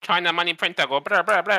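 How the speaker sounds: loud, high, silly machine chant; mock money printer. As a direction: ham up a printer sound.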